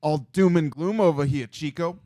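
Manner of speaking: lightly put-on New York accent. Co-host needling Chico about the gloomy stats, mock New York accent. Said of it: "Why'd you go with that accent?".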